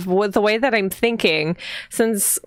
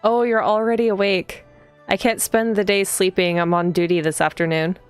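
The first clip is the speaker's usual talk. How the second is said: read-aloud narration. A narrator's reading. Player reading the heroine's morning greeting aloud, even narration. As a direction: read the game text evenly, unhurried. Reads the game's text aloud.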